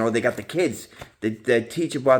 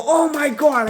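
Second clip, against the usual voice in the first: shocked high squeal, much higher; high squeaky disgusted impression; high mock disgust; 6 dB louder, slower than usual. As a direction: recoil at the toilet seat in a high voice. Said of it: "I go".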